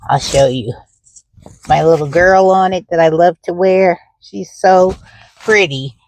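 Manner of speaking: talking while out of breath; breathless, catching air between words. Real, not acted. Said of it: "whew, I'm out of breath".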